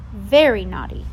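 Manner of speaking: emphatic scold. Acted. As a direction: hammer the point home harder. Babysitter repeating her scolding.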